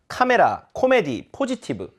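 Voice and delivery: 카메라, 코미디, 포지티브 with every vowel full; Korean-style reading. Shown as a demonstration. Teacher showing what natives can't follow, 카메라, 코미디, 포지티브 in Korean style. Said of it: "원어민 이해하기 힘듭니다".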